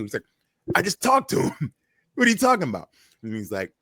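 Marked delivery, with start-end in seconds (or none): 0.8-2.9 high, fast, laughing disbelief; incredulous reply. Retold or imitated. Wrestler told Triple H is angry, high fast disbelief. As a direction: rattle it off in amused disbelief.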